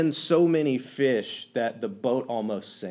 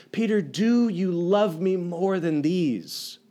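compassionate; slower than usual. Retold or imitated. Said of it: "great show of compassion".

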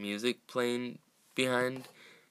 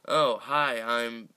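Chucky doll voice; 3 semitones higher, 7 dB louder, slower than usual. Retold or imitated. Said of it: "he goes to say the normal line".

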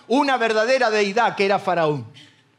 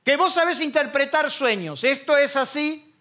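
slow, drawn-out sneer; scornful Pharaoh; 4 semitones higher, slower than usual. Acted. Pharaoh mocking José before his court, scornful. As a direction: look down on him as you ask. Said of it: "casi con un tono despectivo".

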